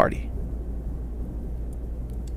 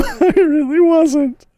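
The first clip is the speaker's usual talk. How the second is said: laughing; 5 semitones higher, 4 dB louder than usual. Real, not acted. Laughs while speaking.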